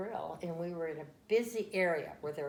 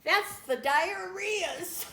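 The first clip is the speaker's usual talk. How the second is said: put-on very high, loud, slow toddler voice; little child voice; 14 semitones higher, 8 dB louder, much slower than usual. Toddler explains to mom, high child voice. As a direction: deliver the punchline as the toddler.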